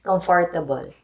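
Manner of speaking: Filipino-accented comfortable. Shown as a demonstration. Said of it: "I will say the Filipino accent for it".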